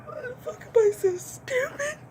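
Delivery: high, slow sobbing wail, voice cracking into crying. Acted. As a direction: cry it out like you hate yourself at 3 am. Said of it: "And you are just wailing".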